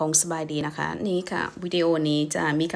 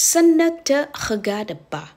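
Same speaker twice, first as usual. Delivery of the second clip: Ce ne te regarde pas, stretched slowly, higher; slow French demo; 6 semitones higher, much slower than usual. Shown as a demonstration. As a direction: spell it out slowly for the class. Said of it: "ให้พูดว่า". (พูดช้าๆ เสียงสูงขึ้นเล็กน้อย)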